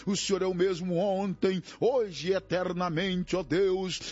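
impassioned, pleading prayer in rolling phrases; fervent prayer. Real, not acted. Pastor interceding with God for despairing, grieving, oppressed people, fervent prayer. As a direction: cry out to God, drawing out key words.

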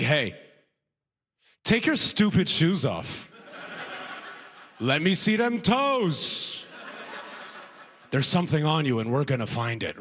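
slow, drawn-out gruff guard; a hint of a hostile officer barking orders; mock tough airport guard, slow; rude American guard. Rude American security voiced.

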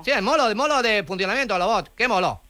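put-on foreign accent with L for R; foreign-accented broken Spanish; mock foreign accent. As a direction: play a foreigner mangling Spanish, R turned to L. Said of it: "¿Qué mono?".

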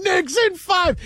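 high-pitched mock holler; retold yelling. Fan yelling at passing boats, high mock yell. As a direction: chant it high, like calling across water. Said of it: "and I'm yelling".

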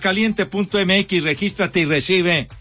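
upbeat sponsor plug; radio ad read. Acted. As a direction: pitch it like a radio ad.

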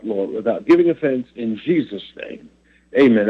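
earnest spoken prayer, measured. Acted. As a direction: pray it aloud for the listeners. Opening prayer on air.

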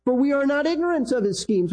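"For we are not ignorant of his schemes" held high with firm emphasis; emphatic verse reading. Shown as a demonstration. Preacher rereading the verse to stress Paul's point, emphatic. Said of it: "Here's the emphasis".

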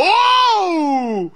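high, drawn-out shouted whoa; long whoa cry. Pretend. Host jokes about the shops, long high cry. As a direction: cry out and hold the vowel, then let it fall.

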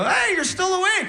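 high, chirpy sing-song greeting; a bright high hello; sweet greeting. Retold or imitated. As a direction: coo it to a sleepy partner. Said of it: "I go".

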